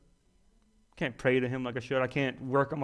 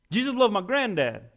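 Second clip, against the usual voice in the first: laughing; 7 semitones higher than usual. Real, not acted. Laughs while saying it.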